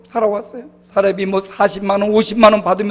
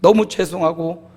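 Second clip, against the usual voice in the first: teary regret; 3 semitones lower than usual. Real, not acted. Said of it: "눈물을 흘리면서".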